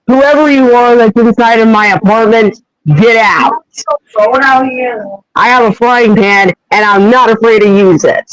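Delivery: mildly acted defensive threat; defensive warning. Human persona to intruder with frying pan, mock defensive. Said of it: "defensive and possibly grabbing something".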